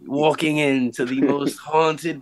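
slow hushed ghost hunter intro; hammed-up ghost show host; stupid ghost hunter voice. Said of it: "The stupid voice and everything".

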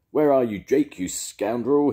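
a captain brandishing a cutlass; demanding. A narrator's reading. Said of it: "he demanded".

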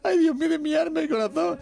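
very high hammed-up lament; mock wailing. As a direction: wail to heaven in a put-on high voice. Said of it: "El chofer atrás llorando".

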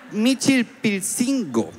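MICHILPILCINGO stretched out high and very slowly; high, painstaking attempt at Michilpilcingo; laboured sounding-out. Sounding out a difficult name.

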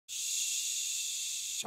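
whispered shush. Pretend. Soothing a rampaging clown.

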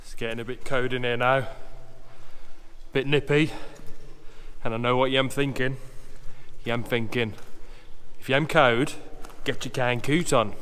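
put-on broad Black Country accent; fake Black Country accent. Vlogger greeting viewers from the canal tunnel, fake Black Country accent. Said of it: "my fake black country accent".

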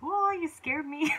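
laughing through a real little startle, slow; startled laugh. Real, not acted. Mom startled by her helper at the counter, laughing. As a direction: caught off guard and laughing it off. Startled by kid while cooking.

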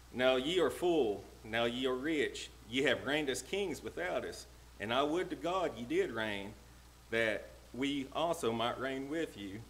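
measured, emphatic Bible verse reading; preacher declaiming a verse; scripture reading. Real, not acted. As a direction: read it out in ringing phrases. Reads the scripture verse aloud.

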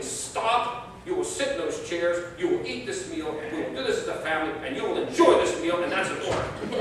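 hammed-up stern dad laying down the law; father yelling at fighting kids, half-laughing; retold yell. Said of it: "I'm yelling and saying".

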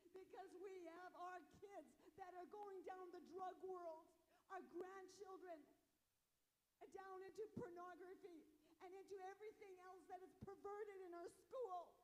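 preacher building heat over the drug world; getting loud. Real, not acted. Preacher warning the women, rising and impassioned. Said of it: "Sorry if I'm getting loud".

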